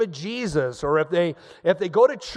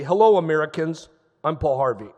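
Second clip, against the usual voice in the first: Paul Harvey; 5 dB louder than usual. Retold or imitated. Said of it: "He'd say".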